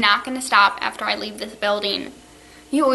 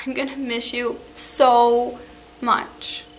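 tearful goodbye; slower than usual. Real, not acted. Teacher's tearful farewell to students.

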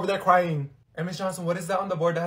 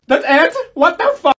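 much higher and louder, stunned; outraged disbelief; 12 semitones higher, 10 dB louder than usual. Acted. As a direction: explode at the anticlimax. Disbelief at pointless story.

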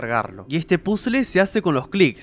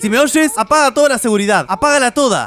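reading Gregory's line; 6 semitones higher, 4 dB louder than usual. Retold or imitated. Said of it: "me dice Gregory".

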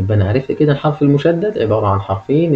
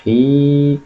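النخيل broken into parts with pauses, long vowel held; sounding out parts; 4 semitones higher, slower than usual. Shown as a demonstration. Teacher reads out the analysed word, halting syllable by syllable. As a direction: sound out النخيل one piece at a time. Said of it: "والحرف المتحرك وحده".

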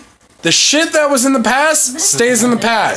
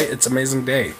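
slightly slurred tipsy speech; 8 semitones lower than usual. Real, not acted. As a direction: talk like you've had a few. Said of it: "Sorry, I'm a little tipsy".

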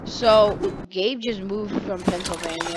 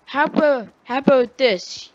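raised, louder retold comeback; pissed-off comeback; 5 semitones higher, 5 dB louder than usual. Kid restarts the comeback without curse words, pissed off. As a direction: wind up for an insult, acted heat. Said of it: "when I got really pissed off".

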